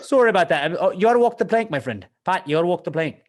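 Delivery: hammed-up, over-polite Canadian pirate. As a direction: apologize as you order them overboard. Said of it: "A Canadian pirate would be really funny".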